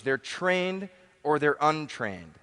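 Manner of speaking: slowed right down, leaning on "trained"; slow emphatic repeat. Shown as a demonstration. Speaker to seminar crowd, slow emphatic repeat. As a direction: repeat it slowly so "trained" lands.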